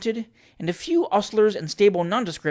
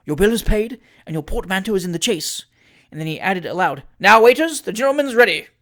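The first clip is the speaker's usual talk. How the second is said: calling out; 3 semitones higher, 6 dB louder than usual. Acted. Mayor calling the waiters to take Trott, loud call. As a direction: summon the waiters with authority.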